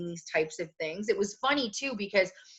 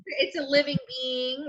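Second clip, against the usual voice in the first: higher, insistent mock pleading; retold protest; 5 semitones higher than usual. Woman defending her hamster to doubters, high insistent protest. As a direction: argue each point with pitch raised.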